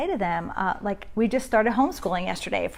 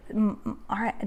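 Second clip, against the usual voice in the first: whisper; 6 dB quieter than usual. Shown as a demonstration. Inner voice during body scan.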